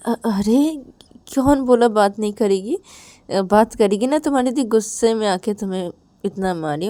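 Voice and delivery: emphatic reassurance. Acted. Ravi insists to crying Rahul she will talk, emphatic reassurance. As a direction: reassure firmly, pushing back on the despair.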